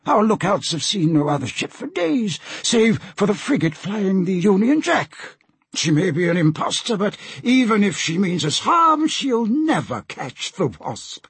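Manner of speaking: high-pitched captain voice; confident captain. Acted. Captain dismisses pirate threat to diplomat, high voice.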